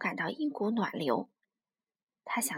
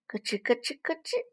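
spoken crunch-crunch noises; imitated munching. Tyrant dinosaur eating the fish, crunchy munching noise. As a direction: chomp through the syllables rhythmically.

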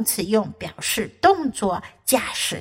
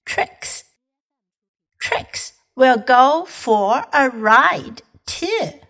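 model reading; slower than usual. Shown as a demonstration. Slow model reading of the book.

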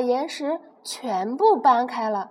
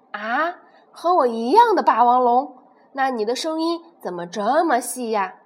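loud, puzzled question; a blind T-rex suspicious of the voice; surprised T-rex; 5 dB louder than usual. Acted. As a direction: doubt what you hear.

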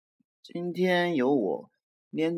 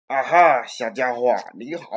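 cheery monster; 7 dB louder than usual. Acted. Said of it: "怪物说".

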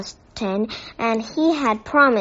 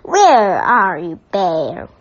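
calling out; 6 dB louder than usual. Acted. Angry neighbour calling out.

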